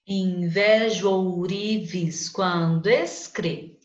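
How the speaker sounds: Invejo ourives quando escre read slowly, stopping at escre; teacher scanning the verse slowly. Shown as a demonstration. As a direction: stop the line on the stressed syllable cre. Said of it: "Lembra por que que vai até o cre só".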